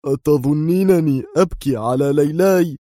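mildly irritated reply; irritable. A narrator's reading. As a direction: snap back, nerves frayed. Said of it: "أجابها في عصبية".

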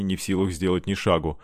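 usual speaking voice

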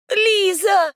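high, loud call; shouting a name. A narrator's reading. Heroine shouts for the missing girl. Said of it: "кричит она снова".

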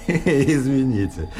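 slow apology through laughter; nervous laugh, trying to stop. Real, not acted. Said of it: "перестаньте же вы смеяться".

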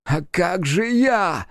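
high, very slow wail; mild roar, pitched high; demon roaring. A narrator's reading. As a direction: stretch it out like a howl. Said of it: "заревел демон".

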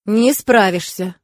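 slow, firm, even-toned contradiction. Acted. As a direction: state it slowly and levelly. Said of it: "От его ровного тона".

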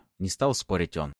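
ordinary delivery

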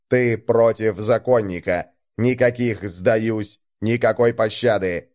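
calm, deadly authority; cold enforcer. Acted. Enforcer sets the duel.

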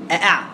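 أأع with two separate glottal stops; two hamzas. Shown as a demonstration. Teacher isolating the reading with two hamzas, both sounded. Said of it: "بهمزتين".

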